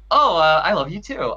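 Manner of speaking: offhand, caught-off-guard delivery; casual reply. Retold or imitated. Fan replays his reply to the idol, casual and offhand. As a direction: toss it back casually, a little unready. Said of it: "like, so casually".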